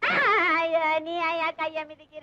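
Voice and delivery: long, held cry of pain; pained wail. Acted. Woman whose hand is stepped on, pained wail. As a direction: wail it out on one held note.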